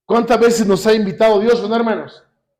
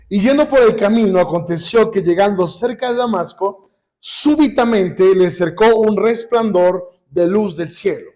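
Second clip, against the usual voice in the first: slow, deliberate Bible reading; measured pulpit reading with drawn-out words; scripture reading. A narrator's reading. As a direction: read the verse aloud, stretching key phrases. Reads scripture aloud to congregation.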